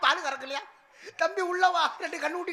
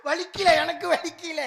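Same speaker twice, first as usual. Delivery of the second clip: drawn-out denial; 2 semitones higher, 4 dB louder, slower than usual. Pretend. Beaten sidekick insists it doesn't hurt.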